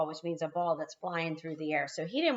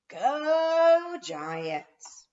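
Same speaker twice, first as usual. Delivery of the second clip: higher, louder team shout; team cheer; 10 semitones higher, 6 dB louder than usual. A narrator's reading. Team shouting their name to the coach. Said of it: "shouted the team".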